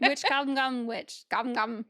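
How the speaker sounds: quick retry of a tongue-twister; fast tongue-twister. Shown as a demonstration. Another go after fumbling the dare, fast tongue-twister. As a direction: rattle it off, first words punched. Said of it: "Say that five times fast".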